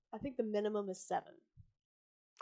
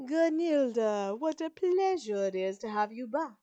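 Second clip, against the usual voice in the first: tight smile; 2 semitones higher, 8 dB louder than usual. A narrator's reading. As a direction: force a pleasantry through a tight smile. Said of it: "says Winifred with a tight smile".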